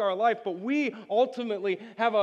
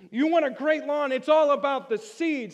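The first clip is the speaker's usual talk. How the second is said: eager salesman-like pitch; 4 semitones higher, 4 dB louder than usual. Retold or imitated. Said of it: "He's like".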